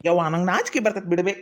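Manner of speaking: coy, low-pitched protest; unmanly bashfulness. Acted. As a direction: squirm shyly like a mama's boy. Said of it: "ನೀ ಹಿಂಗತೆ ಮಾತಾಡಿದ್ರ ಒಟ್ಟು ಗಣಮಗ ಆಗಿಲ್ಲ".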